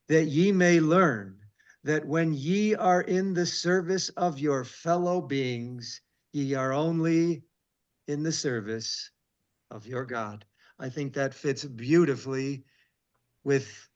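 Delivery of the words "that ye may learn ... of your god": slow, solemn verse reading; scripture reading. Acted. Teacher reading Alma to the class, slow and solemn. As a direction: draw out sing and love.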